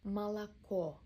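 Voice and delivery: "Молоко" as "Малако", ending stressed; stress on last O. Shown as a demonstration. Teacher showing learners the stressed final O. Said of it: "Last O is stressed".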